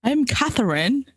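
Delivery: put-on English accent. Co-host posing as a scammer from England, English accent. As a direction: lean into a playful English accent. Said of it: "we're leaning into it".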